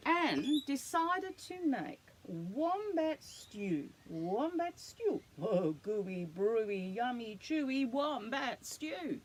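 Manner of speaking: put-on lively storybook read to a child; animated read-aloud for a little one; reading to children. A narrator's reading. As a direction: tell it like a bedtime picture book. Reads picture book to child.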